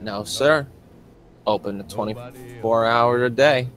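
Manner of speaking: lightly voiced friendly backwoods fella, easygoing; a hint of a folksy stranger, unhurried welcome; folksy country mechanic. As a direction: play a chummy small-town grease monkey. GM voices Judas chatting.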